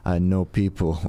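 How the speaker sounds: lightly voiced Nigerian accent; a touch of a Nigerian accent, knowing. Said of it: "I like how your Nigerian accent is".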